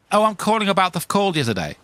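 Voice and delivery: real-voice phone caller. Acted. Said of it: "it's a real voice".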